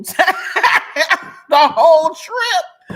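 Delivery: loud, high laughter breaking into the words; cracking up. Real, not acted. Sharing juicy gossip with viewers, cracking up. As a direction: lose it laughing on the punchline.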